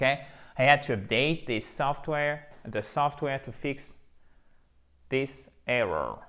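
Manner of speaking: slowly, every word clear, ending on "error"; slow model sentence. Shown as a demonstration. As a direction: spell out "I had to update the software" slowly. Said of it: "avec un accent tonique ici".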